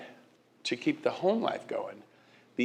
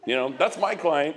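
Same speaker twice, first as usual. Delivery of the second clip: usual speaking voice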